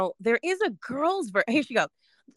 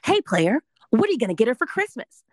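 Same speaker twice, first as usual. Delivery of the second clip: crisp, formal newsreader read; news anchor voice; 4 dB louder than usual. Shown as a demonstration. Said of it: "I'm gonna use my news anchor voice".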